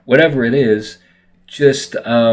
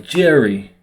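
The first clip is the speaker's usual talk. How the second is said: lightly imitated New York accent on "Jerry", pitched up; 4 semitones higher than usual. Speaker imitating how a New Yorker says his name, New York accent. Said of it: "someone from New York might be like".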